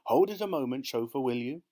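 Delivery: a touch of sudden alarm; sudden interjection. A narrator's reading. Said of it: "Mister Foster said suddenly".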